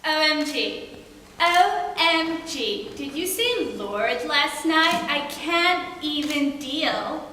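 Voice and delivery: lightly voiced starstruck teen, slowed and gushing; gushing teen girl. Speech parody of a starstruck teen fangirl, mock gushing. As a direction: drawl out the OMGs like a swooning fangirl. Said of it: "a few of the many stereotypes".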